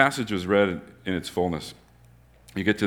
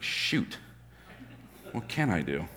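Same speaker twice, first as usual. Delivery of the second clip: whispered, much softer worry; panicked whisper; 3 semitones lower, 13 dB quieter, slower than usual. Retold or imitated. Fired manager worrying to himself in a whisper. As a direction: hush it like a desperate man talking to himself.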